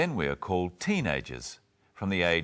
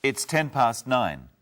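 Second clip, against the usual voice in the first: louder, slow repeat; 6 semitones higher, 6 dB louder, slower than usual. Acted. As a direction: spell it out slow. Repeating for someone who misheard.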